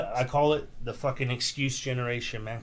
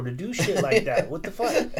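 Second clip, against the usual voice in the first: higher, laughing through the words; laughing quote; 4 semitones higher than usual. Retold or imitated. Tommy G laughs off the complaint about his daughter, laughing. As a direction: laugh it off carelessly.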